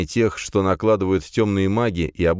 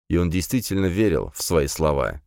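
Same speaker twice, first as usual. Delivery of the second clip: ordinary delivery, nothing marked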